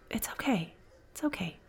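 a soft hush, quiet and gentle; calm her down tenderly; soothing whisper. Acted. Bartender softly hushes the crying girl.

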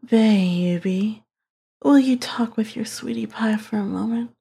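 light, sugary whispered opener; not serious enough. Shown as a demonstration. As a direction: rehearse it sweet and breezy. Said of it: "not serious enough".

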